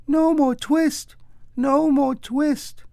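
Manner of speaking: very high, slow squeaky mouse cry; twittering mouse shout. A narrator's reading. Mice shouting at Simpkin, very high and slow. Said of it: "shout at once in little twittering voices".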